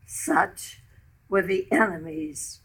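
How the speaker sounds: measured verse reading in short phrases; deliberate, line-by-line poem reading; narrative poem recital. Acted. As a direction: recite a war story in verse, pausing between phrases. Reads her story poem.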